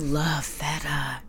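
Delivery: swallowing mid sentence; talking through a mouthful; mouth full. Real, not acted. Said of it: "Sorry, I have to swallow".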